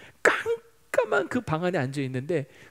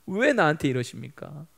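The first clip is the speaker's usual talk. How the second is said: acted protest to God, climbing higher and louder; resentful complaint; 5 semitones higher, 4 dB louder than usual. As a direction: pour out your grievance, building to a heated demand. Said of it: "원망이 하나님께 막 쏟아지기 시작하더라는". (원망을 쏟아내듯)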